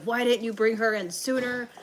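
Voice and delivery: high, indignant mock yell; imitated yelling. Doctors confront mom over untreated strep, mock yelling. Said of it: "they started yelling at my mom".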